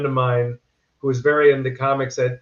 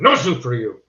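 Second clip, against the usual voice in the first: a hint of the stern soup man, slightly louder; Soup Nazi catchphrase; 2 semitones lower, 3 dB louder than usual. Actor giving a young fan the catchphrase in mock character. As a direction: toss out the famous line half in character. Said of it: "Say the line".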